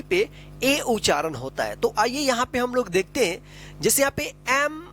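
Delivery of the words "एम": letters drawn out one by one; stretched, separate letters; slow spelling. Shown as a demonstration. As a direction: spell it slowly for beginners. Teacher spells out word for learners.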